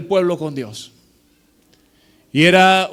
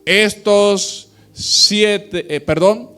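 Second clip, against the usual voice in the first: solemn scripture reading. Acted. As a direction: proclaim the verse to the congregation. Reads scripture aloud in sermon.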